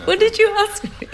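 high, quick, through laughter; laughing question. Real, not acted. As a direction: crack up as you admit you lost the thread. Laughs at having lost the question.

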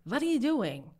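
a lightly voiced old man telling him off; old man scolding. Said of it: "an old man was shuffling by and said".

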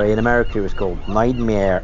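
put-on clumsy, barely-there American accent; bad American accent. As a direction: fake a bad American accent, tongue in cheek. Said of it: "No, that was a bad American accent".

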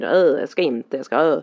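mildly mimicked grumpy child refusing; grunted "öh" of a balking kid; half-hearted imitation of a reluctant child; retold refusal. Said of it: "vägrar, hatar".

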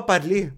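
"parler" with the R swallowed. Shown as a demonstration. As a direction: say "parler" with no real R. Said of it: "on dit même pas le R". (« parler » au R avalé)

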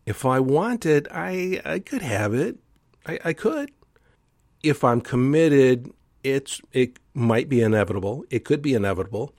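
doubt creeping into every word; hesitant. Shown as a demonstration. Host showing the wrong way, hesitant and unsure. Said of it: "I didn't say it like this".

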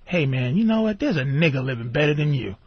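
low, hushed rich white guy egging him on. Retold or imitated. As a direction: lean in like a rich man stirring up resentment. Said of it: "Some rich white guy going".

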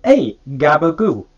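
lightly hammed-up Italian greeting; mock Italian. Players riffing on an Italian mobster, mock Italian accent. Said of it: "what is he Italian".

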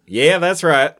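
lightly imitated Southern twang, amused; Southern accent. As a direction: agree in a mock Southern accent. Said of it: "a couple people with that accent".

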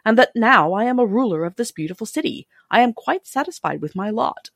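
lightly voiced, pleased new ruler with lively rises in pitch; contented Scarecrow. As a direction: play a proud, satisfied Scarecrow, gently animated.

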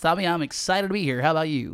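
put-on a toned-down fifties American accent; lighter mock American accent. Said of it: "that American, uh, sensibility".

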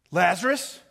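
loud, commanding shout; yelling at death. Acted. Jesus yells at death to release Lazarus, loud command. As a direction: order death to let go. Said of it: "I think he's yelling at death".

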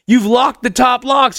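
yelled through a door, slowed; locked out, yelling at roommate through the door; calling through door. Retold or imitated. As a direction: shout it so he hears through the door.

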